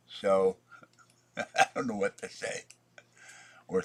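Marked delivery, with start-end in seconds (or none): 0.1-2.6 whispered laugh. Real, not acted.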